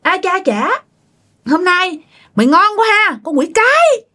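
high-pitched irate mother-in-law; indignant high scolding; angry scolding. A narrator's reading. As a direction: tear into the daughter-in-law, pitch jumping up. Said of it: "bà mới chửi nha".

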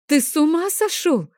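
mother roaring at the dragon over a real sword, high and loud; roaring outburst. A narrator's reading. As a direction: blow up at him in alarm. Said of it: "взревела я".

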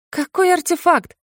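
high, wincing disbelief; wincing question. A narrator's reading. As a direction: she winces at the word artefact. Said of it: "Поморщилась она". (поморщившись, высоко)

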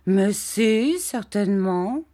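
mock protest of a pampered wife; spoilt young wife teasing. A narrator's reading. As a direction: pretend to be offended. Dora voiced by reader.

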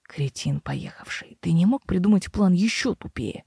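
hoarse, half-whispered scorn. Acted. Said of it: "Хрипло поинтересовалась Мэйр". (хриплый голос)

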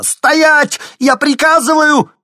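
high, loud order to stop; commanding shout. A narrator's reading. Teacher ordering the runaway boy to stop, shouting. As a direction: bark the order at full volume. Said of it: "закричала из коридора Казакова".

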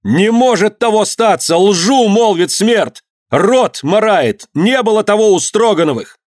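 high, drawn-out indignant cry; impassioned high-pitched protest; shouted denial. A narrator's reading. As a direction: defend the family before the crowd. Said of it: "закричал".

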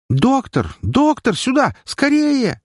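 high panicked scream for the doctor; nurse screaming. Acted. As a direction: shriek for help in shock. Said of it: "закричала медсестра". (медсестра кричит врачу в панике)

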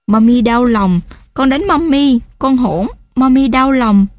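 a touch of crying as she tells her son she is hurt; mild tearful. Acted. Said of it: "rồi òa lên khóc". (giọng mẹ hơi nghẹn, chậm và cao hơn)

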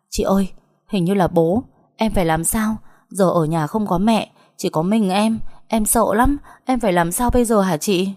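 mildly panicked plea, pitch lifting; scared little sister. Acted. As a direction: beg big sister for help, frightened. Frightened girl as father knocks at door.

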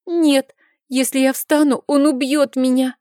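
put-on a boy sure he'll be killed; frightened child. A narrator's reading.

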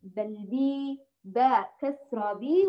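بي with a full, clear long i; completed kasra. Shown as a demonstration. Teacher corrects the mistake, kasra completed as "bi". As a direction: say باء كسرة بي slowly, i fully completed. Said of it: "هي ليست ب".

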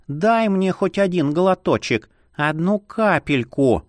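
slow pleading purr; breathy vintage purr. Acted. Vampire begs for a drop.

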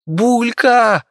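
high piercing scream of the rat's name; frantic scream. Acted. Viki screams for her rat in terror, frantic shriek. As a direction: shriek it in panic, high and loud. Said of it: "истошно закричала Вики".

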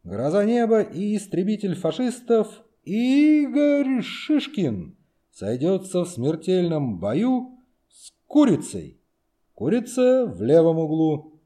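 high, slow, booming boxing MC; ring announcer voice. Acted. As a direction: announce it like a ringside MC. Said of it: "подражая голосу конферансье".

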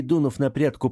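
ordinary delivery, nothing marked

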